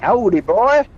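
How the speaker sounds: mock American cowboy drawl; American cowboy accent. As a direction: play a Texan cowboy tipping his hat. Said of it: "American accent".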